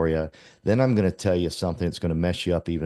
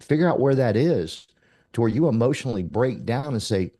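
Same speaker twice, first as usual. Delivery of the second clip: ordinary talk, nothing marked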